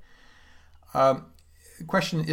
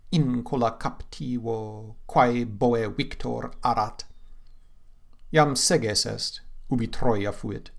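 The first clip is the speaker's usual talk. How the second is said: poem recitation; slower than usual. Acted. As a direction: give the lament its full weight. Recites the Latin passage.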